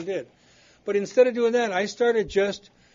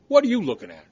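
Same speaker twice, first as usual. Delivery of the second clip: louder, picking a fight; confrontational snap; 6 dB louder, faster than usual. Retold or imitated. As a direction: start the quarrel. Father and son clash.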